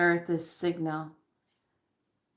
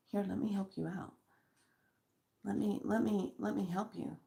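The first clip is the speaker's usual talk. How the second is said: fast offer; 2 semitones higher, 10 dB quieter, faster than usual. Shown as a demonstration. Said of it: "those of you that are having issues".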